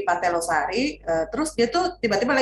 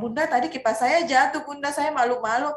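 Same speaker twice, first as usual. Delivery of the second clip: higher, lightly voiced small child; little child; 6 semitones higher than usual. Small daughter telling her mother about the fall. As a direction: play the shy child telling mom. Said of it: "dia bilang".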